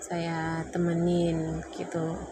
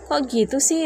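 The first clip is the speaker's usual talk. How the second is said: much higher and louder, taken aback; can't believe he said that; retold hurt disbelief; 8 semitones higher, 7 dB louder than usual. Retold argument.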